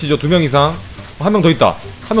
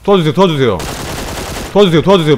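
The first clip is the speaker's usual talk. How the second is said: mock plea for help; 5 semitones higher, 6 dB louder, faster than usual.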